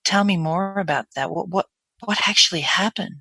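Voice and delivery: breathy, concerned questioning. Shown as a demonstration. Dentist drawing out an upset patient, breathy. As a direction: ask with breath in the tone. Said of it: "I'm now more breathy".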